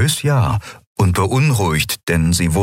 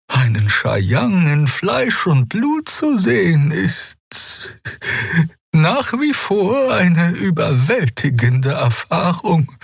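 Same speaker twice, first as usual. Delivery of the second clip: put-on much higher, slow, awed young voice; young healer Xea; slower than usual. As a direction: speak with reverent wonder, slowly. (hohe, langsame, ehrfürchtige Stimme)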